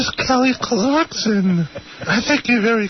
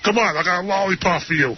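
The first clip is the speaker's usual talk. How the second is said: low, fast teasing voice; KC impression; 6 semitones lower, faster than usual. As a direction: rattle it off in a lowered voice. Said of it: "it's K C here".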